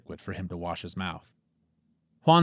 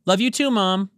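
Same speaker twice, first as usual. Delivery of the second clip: happy; 11 semitones higher, 8 dB louder than usual. Acted. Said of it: "Juan replied happily".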